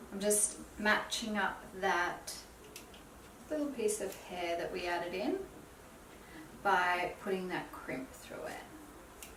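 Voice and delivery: hushed, half-whispered tutorial voice; soft-spoken. Real, not acted. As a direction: talk softly while you work. Soft talk while styling hair.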